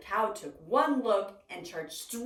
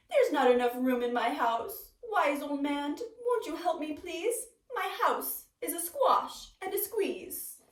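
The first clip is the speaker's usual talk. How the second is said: a lightly voiced old lady, higher and pleading; 5 semitones higher than usual. Old lady begging the wise old man for more room, pleading.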